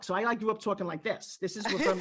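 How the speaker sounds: lightly put-on New York accent. Shown as a demonstration. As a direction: slip into old New York talk. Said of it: "my original accent comes from New York".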